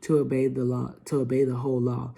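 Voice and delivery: loud, emphatic Bible reading; scripture reading. Acted. Vlogger reading Galatians to viewers, preaching loudly. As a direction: read it like a preacher at the pulpit. Reads Galatians five aloud.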